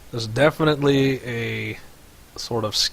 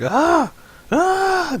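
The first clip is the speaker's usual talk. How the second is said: high, loud mock scream; short, high-pitched pretend screams; imitated scream; 5 dB louder than usual. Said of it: "things like he's screaming".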